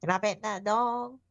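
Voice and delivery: pinched-nose southern accent. Shown as a demonstration. Showing friends the trick: nose-pinched Southern accent. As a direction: hold the nose and lay on a heavy Southern accent. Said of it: "the most southern accent you can".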